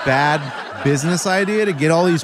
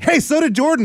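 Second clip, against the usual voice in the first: gloating dad; 11 semitones higher than usual. Retold or imitated. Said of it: "I'm like".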